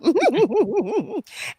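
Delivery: high run of giggles; real giggle. Real, not acted. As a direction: giggle freely, pitched well up. Laughing after birthday thanks.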